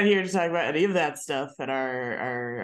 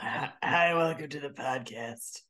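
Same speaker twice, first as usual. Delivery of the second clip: smoker's rasp; 2 semitones lower than usual. Retold or imitated. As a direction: croak it out like a goblin. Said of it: "Like a fucking goblin".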